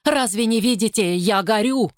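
high anguished cry; woman crying to the crowd; desperate cry. Acted. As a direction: plead that she burns. Woman screaming in agony.

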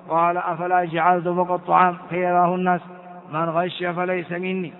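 level, evenly pitched recital; measured monotone reading of scripture; hadith text reading. Acted. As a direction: read the text formally on one steady tone. Reads the hadith text aloud.

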